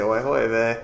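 put-on joking Yiddish-style oy vey in a Jewish accent. Host twisting the Australian tip into a joke, Jewish accent. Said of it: "If you're Jewish, you have to say".

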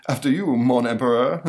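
loud sarcastic bow in a cartoon voice; mocking. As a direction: sneer a mock courtesy. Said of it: "monster mocking him".

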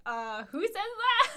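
slow, high, shocked mom. Retold or imitated. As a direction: gasp it out in disbelief. Mom shocked in retold story.

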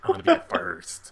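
mock redneck twang; redneck accent. Host as a listener promising to send toilets, in a redneck accent. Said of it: "talk in a redneck accent".

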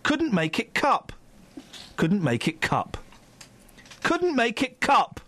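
slow, deliberate repeats with pauses between; drawn-out mock-tabloid slogan; slow catchphrase. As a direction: space every word out evenly.

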